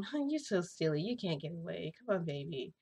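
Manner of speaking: put-on cooing to toddler. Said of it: "Like that".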